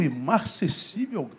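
baffled repetition; incredulous echo. Retold or imitated. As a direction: question the fancy word as if it's absurd. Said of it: "Você tá maluco".

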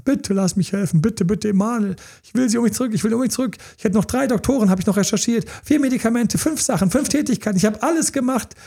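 high, begging mock partner voice; desperate pleading. Desperate partner begging to be let back to help, pitched high.

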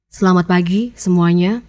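low, unsmiling greeting; different tone, subdued. Shown as a demonstration. Coach contrasting tones of one greeting, low subdued delivery. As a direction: drop the smile and greet them on a low pitch. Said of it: "Beda kan?".

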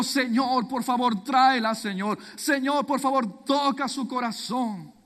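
pleading prayer. Acted. Hosea at his bedside begging God to bring Gomer back. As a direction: plead with God for his wife to come home.

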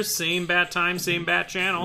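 high, bright, lightly hammed sign-off; retro TV announcer. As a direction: announce it like an old serial. Batman show sign-off.

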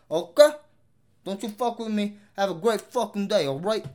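mock gangster warning in thick New York accent. Threatening would-be suers from his block, in a mock New York accent. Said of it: "I'm gonna end it off in this fucking accent".

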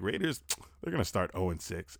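low, quiet, serious delivery; serious prediction. Acted. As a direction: say it softly, as if in earnest. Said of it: "And you're serious".

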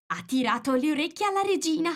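high-pitched little animal voice; nervous rabbit. A narrator's reading. Rabbit explains the Duchess's crime, high and nervous. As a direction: confide it in a high, anxious voice.

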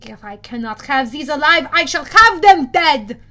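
the Manticore threatening the half-bloods; growling threat. A narrator's reading. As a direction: build the threat into a roar. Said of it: "The Manticore growled".

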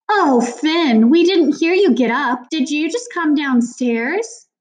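high, loud, overdone heartiness; fake hearty. A narrator's reading. Miss Morales covers up the argument to Finn, fake hearty. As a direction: gush with the fakest good cheer, pitch way up. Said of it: "in the fakest, heartiest voice of all".

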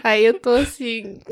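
teary laughter. Real, not acted. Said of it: "Você tá chorando já".

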